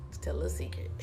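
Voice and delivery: whispered secret, breathy and hushed; playful whisper. Pretend. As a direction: lean in and whisper it like a secret to sissy. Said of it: "I tell a little secret".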